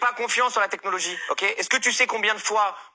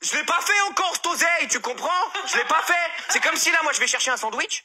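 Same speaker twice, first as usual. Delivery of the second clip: higher, ranting, half-laughing; exasperated outburst; 8 semitones higher than usual. Acted. Talking back to the accountant, exasperated and higher. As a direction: vent at the taxman, higher and laughing. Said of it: "je suis obligé de le dire parce que je suis vénère".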